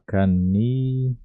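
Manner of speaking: "canilha" slowly, stress on -NI-, ending -nid͡ʒa; drawn-out "canilha", the lh like a soft dj; Paraguayan canilha. Shown as a demonstration. Teacher slowly showing students how to say canilha. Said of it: "você pode pronunciar dessa maneira aqui".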